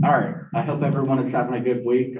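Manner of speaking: talking around a mint; mint in mouth. Real, not acted. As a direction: speak with a candy in your mouth. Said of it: "I have a mint in my mouth".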